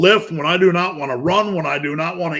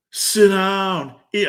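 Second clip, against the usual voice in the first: lazy inner voice; 4 semitones higher, much slower than usual. Retold or imitated. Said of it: "a voice in your head telling you to sit down".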